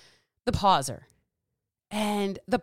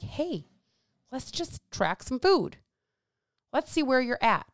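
gentle coaching; 4 semitones higher than usual. Acted. Acted gentle coach to client.

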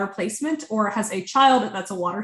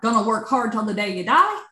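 put-on slight rural country accent. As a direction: slip lightly into a country twang. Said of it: "I'm having a countryer accent".

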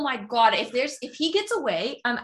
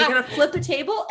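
laughing; 3 semitones higher than usual. Real, not acted. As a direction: laugh as you toss it back. Co-host laughs back at the echo.

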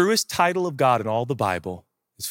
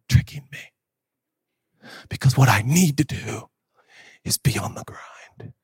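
hushed self-doubt. Acted. Acts believer's hushed self-doubt.

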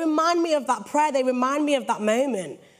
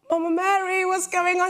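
retold concerned question; 7 semitones higher than usual. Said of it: "I'm like".

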